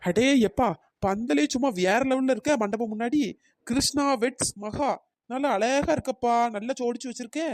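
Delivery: wowed, stretching out the praise; impressed admiration. Acted. Marvels at decorated wedding pandal.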